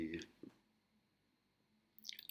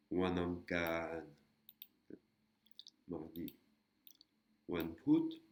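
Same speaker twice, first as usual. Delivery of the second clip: slow syllable demo; much slower than usual. Shown as a demonstration. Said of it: "Donc on a la syllabe Kan".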